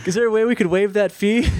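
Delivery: sap story. Retold or imitated. Customer tugging agent's heartstrings over a fee, sap-story pleading. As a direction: plead lightly for some sympathy. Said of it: "the sap story".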